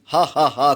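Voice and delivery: wild triumphant cackle; mad laughter. Acted. Sisi mocks Thodanga with a wild, crazed cackle. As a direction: laugh like a madwoman. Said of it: "पागलों की तरह ठाका लगाकर हंस पड़ी".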